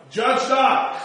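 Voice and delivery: judge not, loud and high; mocking worldly voice. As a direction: punch it like a slogan. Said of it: "And it said".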